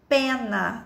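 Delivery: "Pena" stretched as pe, naa; syllable by syllable. Shown as a demonstration. Teacher checking two mouth openings like gato, drawn out. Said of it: "abre a boquinha duas vezes".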